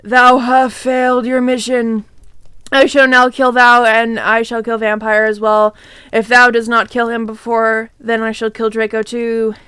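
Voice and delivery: hammed-up raspy villain; sinister monotone rasp, pronouncing doom; evil raspy voice. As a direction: threaten like a raspy evil overlord. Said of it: "said evilly in his raspy voice".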